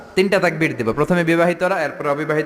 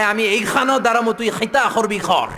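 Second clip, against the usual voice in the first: put-on Sylheti accent; 6 semitones higher than usual. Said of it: "Sylheti এক লোক বসছে".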